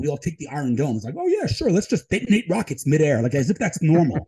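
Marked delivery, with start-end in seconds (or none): 1.2-4.3 sarcastic mock. Mocking people's complacency.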